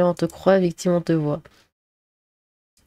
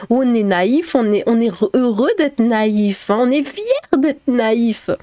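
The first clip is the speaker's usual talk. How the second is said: mock-proud declaration, stretched words rising higher; getting carried away; 3 semitones higher, slower than usual. Streamer mocking believers, carried-away and drawn-out. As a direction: get carried away with sarcastic pride, dragging the key words. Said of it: "Pardon, je m'emporte".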